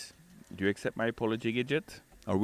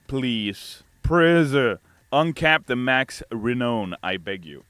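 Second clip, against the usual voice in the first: lightly hammed-up begging, stretched first please; mock pleading; 2 semitones higher, 4 dB louder, slower than usual. Streamer reading a chatter's request, mock begging. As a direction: plead with a punched second please.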